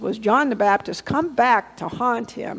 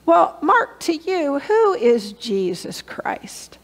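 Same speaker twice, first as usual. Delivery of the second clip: gentle question; 3 semitones higher, slower than usual. Retold or imitated. Asking shy guest pointed question.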